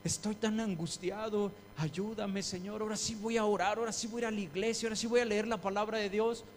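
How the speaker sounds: quick, pleading vows that speed up; half-mock desperate praying; hasty promises. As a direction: rush the promises to God. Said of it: "le dices".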